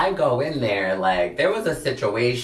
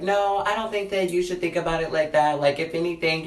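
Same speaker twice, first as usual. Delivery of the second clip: higher-pitched imitation of a reassuring friend; 6 semitones higher, faster than usual. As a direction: gently talk them down, pitched up. Friend talking down an upset friend.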